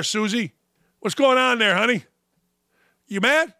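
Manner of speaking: usual speaking voice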